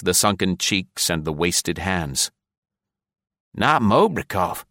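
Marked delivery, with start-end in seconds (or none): 3.5-4.6 slow, stunned gasp, falling; a touch of a stunned gasp. A narrator's reading. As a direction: breathe it out in shock. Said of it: "he gasped".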